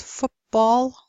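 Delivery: "football" said as "foopball"; assimilated t. Shown as a demonstration. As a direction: turn t to p in "football". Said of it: "the same thing happens".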